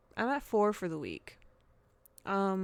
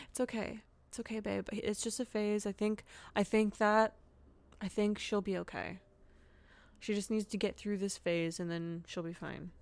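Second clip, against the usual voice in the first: reassuring husband. Pretend. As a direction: play the husband, gently soothing. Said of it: "talking to you as my husband".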